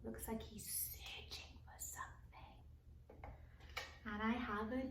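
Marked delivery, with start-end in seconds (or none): 0.0-2.5 much softer whisper. Pretend. Teacher whispering to the children about the detective. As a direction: breathe it like a spy.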